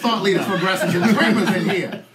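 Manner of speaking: loud, laughing grand praise; laughing mock praise. Real, not acted. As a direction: hype the room while laughing. Joking praise of the audience.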